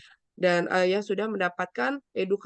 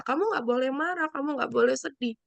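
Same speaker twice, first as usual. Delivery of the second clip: dismissive scolding; 4 semitones higher, faster than usual. Retold or imitated. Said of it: "Jangan kita patahin emosinya dia".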